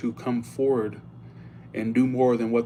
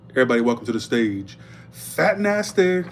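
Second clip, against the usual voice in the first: club announcer call; 4 dB louder than usual. Retold or imitated. Mock MC introducing the dancer to everybody. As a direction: hype the crowd, stretch Fat Nasty. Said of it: "every night they'd go".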